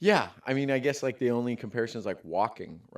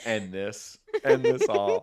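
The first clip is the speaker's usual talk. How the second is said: laughing; 5 dB louder, slower than usual. Real, not acted. Joking despair.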